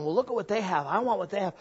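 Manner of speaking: rising from complaint to loud, high indignant whine; envious whining. Retold or imitated. Preacher mocking his own envy of the neighbors, a whine building loud and high. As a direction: build envy into a shrill grievance. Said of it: "So when I'm sitting there going".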